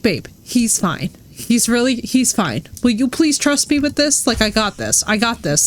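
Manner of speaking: lightly voiced exasperated lecture; Tyler. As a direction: imitate a man insisting he has it handled. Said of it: "I can practically hear Tyler lecturing me".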